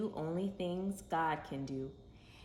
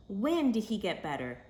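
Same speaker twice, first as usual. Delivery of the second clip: eager question; 4 semitones higher, 5 dB louder than usual. Acted. Eager father asks.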